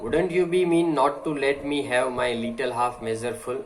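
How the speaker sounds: slow, deliberate oratory reading; slow speech reading. Acted. Teacher reading a speech to the class, slow and deliberate. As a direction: read each phrase slowly, like a speech.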